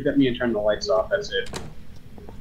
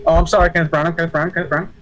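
mock apology; 5 semitones higher, 7 dB louder, faster than usual.

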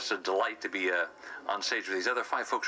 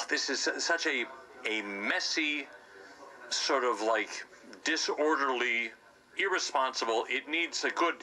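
self-righteous upright citizen; 4 semitones higher than usual. Acted. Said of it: "You think you're an upright citizen".

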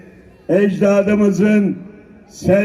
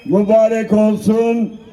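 rally shout. Real, not acted. Rally speaker calling out blessings.

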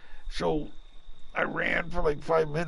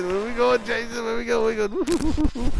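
higher and louder, rising panic; panicked high calls; 8 semitones higher, 4 dB louder than usual. Real, not acted. Player chased by Jason, panicked high calling. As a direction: call out to Jason while running from him. Player fleeing the killer in-game.

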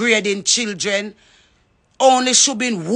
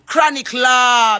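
drawn-out shout to a fellow artist; calling out; 3 semitones higher, 4 dB louder, slower than usual. Real, not acted. Woman on a live stream calls out an artist, slow loud shout. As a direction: call the name out slow and loud.

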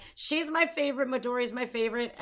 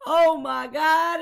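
overwhelmed gasp; 5 semitones higher, 8 dB louder, much slower than usual. Real, not acted. Overwhelmed by the guitarist.

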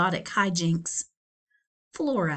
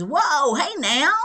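louder, startled whoa; 6 semitones higher, 6 dB louder, slower than usual. Acted. Donald startled by the vacuum, loud startled whoa. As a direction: pull back in alarm. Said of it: "He says".

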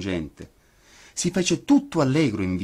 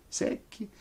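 high breathless whisper of secchi; 13 semitones higher, 8 dB quieter than usual. A narrator's reading. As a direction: whisper secchi thin and dry. Repeated word for effect.

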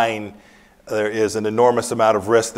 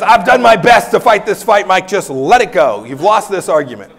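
Kelly insisting; 8 semitones higher, 8 dB louder than usual. Retold or imitated. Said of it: "he says".

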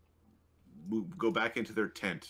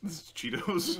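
laughing; 10 semitones higher than usual. Real, not acted. Laughing about snacks.

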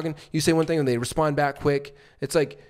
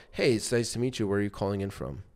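downward tonality; 5 semitones lower, 5 dB quieter, faster than usual. Shown as a demonstration. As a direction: lower and softer, falling at the end. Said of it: "You see where I'm going down?".

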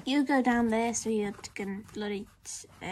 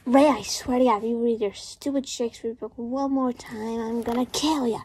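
annoyed outburst. Acted. Fed up with his partner's reading.

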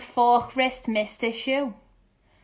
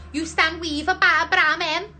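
higher, more forceful sounding-out; raised pitch, rising at the end; livelier retry; 5 semitones higher, 4 dB louder than usual. Real, not acted. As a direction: push the nonsense phrase up, questioning. Tries phrase as Scouse.

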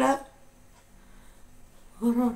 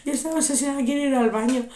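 real chuckle breaking into the words; amused, giggly retelling; laughing while talking; much faster than usual. Real, not acted. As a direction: tell it through amused laughter. Amused retelling of obsessed grandmother.

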